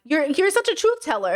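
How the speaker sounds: lightly mocked Boston accent; slight Boston accent. Commentator mimics lawyer praising the witness, slight Boston accent. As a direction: put on a little Boston for the quote. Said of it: "giving him a little, like, Boston accent".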